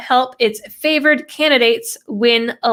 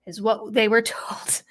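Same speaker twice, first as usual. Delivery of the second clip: breathy chuckling whisper under the breath; whispered laugh; 7 dB quieter than usual. Real, not acted. Scoffing at what union members were told, whispered laugh. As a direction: let a laugh slip into a whisper.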